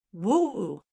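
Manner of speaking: emotional howl. Acted. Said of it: "he howled emotionally".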